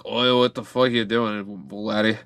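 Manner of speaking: mock Scottish accent. Scottish guys challenging the London driver, mock Scottish accent. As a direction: play a Scot with a put-on accent. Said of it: "the Scottish guys are like".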